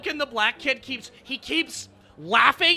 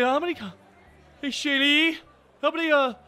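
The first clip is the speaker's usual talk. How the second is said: Randy calling out; 5 semitones higher than usual. Retold or imitated. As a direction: call out across the store. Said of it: "He's like".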